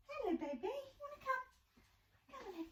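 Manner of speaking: pet voice. Real, not acted. Talking sweetly to her pet.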